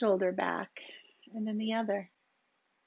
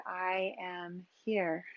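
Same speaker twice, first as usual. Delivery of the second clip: slow, soft, evenly spoken mantra; unhurried meditative affirmation; 2 semitones lower, 4 dB quieter, slower than usual. Shown as a demonstration. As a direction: say it slowly on the exhale, letting it fall. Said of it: "say the words either internally or out loud".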